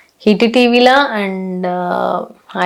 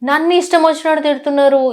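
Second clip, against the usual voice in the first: retold indignation, higher-pitched; aggrieved protest; 4 semitones higher than usual. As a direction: re-enact protesting your innocence. Retells her hurt protest at abuse. (బాధతో నిలదీస్తున్నట్టు)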